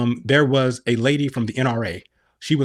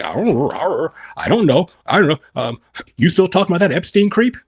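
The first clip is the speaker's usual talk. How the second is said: dismissive mock evasion; 6 semitones higher than usual. Mocking a dodging evader.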